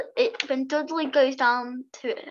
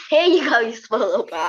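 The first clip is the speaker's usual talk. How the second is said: mock angry; 6 dB louder than usual.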